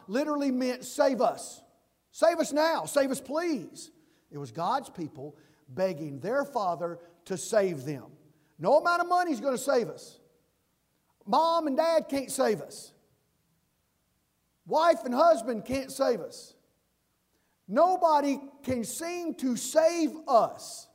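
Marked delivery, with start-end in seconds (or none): 0.8-3.9 higher, pleading Save us; pleading cry. Retold or imitated. Pastor voicing God's people crying out, pleading. 8.6-20.9 higher, louder preaching; preaching at full force. Acted. Pastor preaching to the congregation, rising force.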